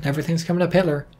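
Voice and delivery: fast, slurred aside; rapid throwaway joke; rushed. Shown as a demonstration. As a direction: toss it off quickly under the breath. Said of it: "in case I didn't enunciate that well enough".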